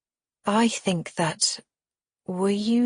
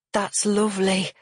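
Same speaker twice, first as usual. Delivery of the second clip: cooing; 3 semitones higher than usual. Acted. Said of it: "Ashley coos".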